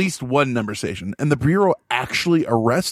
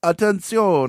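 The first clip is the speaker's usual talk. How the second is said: numbers station monotone; 4 semitones higher, slower than usual. Retold or imitated.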